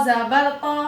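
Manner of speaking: तो said full and heavy, mouth rounded; careful Quran letter drill; heavy letter demo. Shown as a demonstration. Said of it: "ध्यान से सुनिए".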